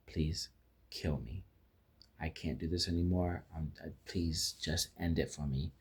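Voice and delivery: soft, subdued retold begging; retold weary plea. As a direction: quietly voice her plea, understated.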